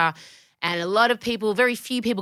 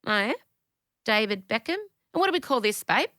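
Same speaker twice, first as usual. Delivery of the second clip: snooty door bitch. Pretend. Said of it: "I wanna stand at the door and go".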